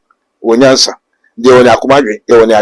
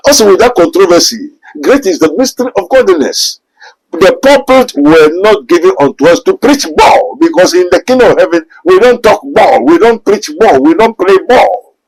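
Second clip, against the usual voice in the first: higher-pitched pulpit declamation; emphatic preaching; 5 semitones higher than usual. Real, not acted.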